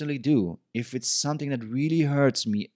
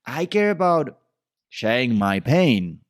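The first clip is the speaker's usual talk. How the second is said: higher, louder mock protest, slowing on the last words; upset mock retort; 5 semitones higher, 5 dB louder than usual. Upset woman replying to an apology, mock indignant. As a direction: act out a hurt partner firing back. Acting out her angry reply.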